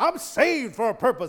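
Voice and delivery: excited and confident. Coaching listeners to repeat a line, the speaker demonstrates it excited and confident. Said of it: "Say it with excitement and with confidence".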